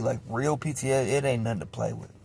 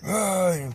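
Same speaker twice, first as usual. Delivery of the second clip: imitated man's yell; 6 semitones higher than usual. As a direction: mimic a man yelling at ordinary volume. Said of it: "like a grown man yelling".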